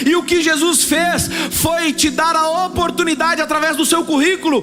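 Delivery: preaching at full force. Acted. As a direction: drive it home to the congregation, full voice.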